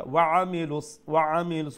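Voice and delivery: ওয়া আমিলুস said distinctly as a model; pronunciation demo. Shown as a demonstration. Teacher giving a word to practise, ওয়া আমিলুস modelled clearly. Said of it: "ও ওয়ার্ডটা একটু practice করবা".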